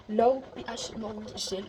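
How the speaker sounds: reading the product name in her best English accent, slowly. Real, not acted. Vlogger reads the cleanser's name to viewers in slow English accent. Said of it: "l'accent anglais, tout il est pas ouf".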